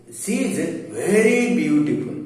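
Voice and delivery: "very" stressed as an emphatic word. Shown as a demonstration. Teacher showing emphatic adjectives to students, stress on "very". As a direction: lean on "very" to intensify the adjective after it. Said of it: "they give emphasis on the noun".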